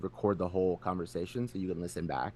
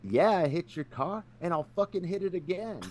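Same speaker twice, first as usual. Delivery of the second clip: mock gangster dad; 10 semitones higher, 4 dB louder than usual. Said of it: "straight G mode".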